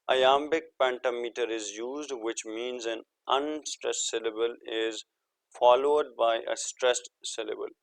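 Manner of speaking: spells out the English definition word by word, slowly; slow dictation. Shown as a demonstration. Teacher slowly dictates the definition to students. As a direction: read it slowly so students can copy it down.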